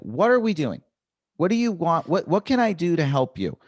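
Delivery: pleading demand for an answer; exasperated appeal. Acted. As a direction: appeal to the heckler in acted exasperation. Acting out pleading with a heckler.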